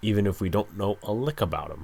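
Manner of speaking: usual speaking voice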